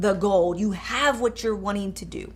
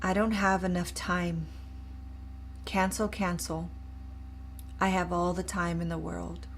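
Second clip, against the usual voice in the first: guided quiet affirmation; 2 semitones lower, 6 dB quieter than usual. Shown as a demonstration. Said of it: "you ready to do that with me?".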